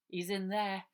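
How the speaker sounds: Harry directing the constables inside the plane. Acted. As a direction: point the police in, briskly.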